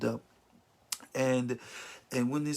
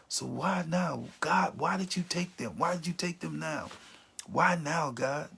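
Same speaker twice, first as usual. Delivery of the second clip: higher-pitched questioning of God; acted anguished why, pitched up; pleading protest; 4 semitones higher than usual.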